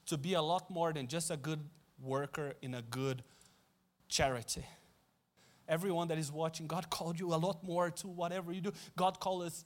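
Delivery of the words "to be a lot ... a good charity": gentle correction. Acted. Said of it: "And God is saying".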